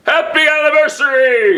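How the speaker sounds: high, bright cheer; cheerful. Real, not acted. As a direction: sing it out happily. Anniversary cheer.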